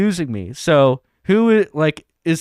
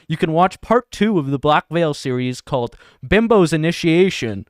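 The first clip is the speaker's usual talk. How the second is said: put-on shitty British accent. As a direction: read out with a loose mock-British accent. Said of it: "my shitty version of a British accent".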